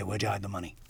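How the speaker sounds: low, soft New York mobster; New York mob voice. Acted. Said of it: "In the New York mob voice".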